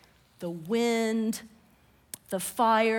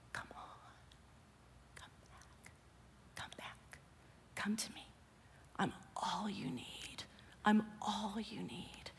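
voiceless, far-off hush, much softer; whispering still small voice; 11 dB quieter than usual. Acted. Preacher voicing God calling Montecito home, a faint whisper. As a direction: breathe it like a tender call from far away. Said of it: "still small voice is whispering over Montecito".

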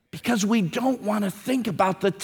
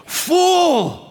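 rebuking cry; 7 semitones higher than usual. Acted. God rebukes the rich man.

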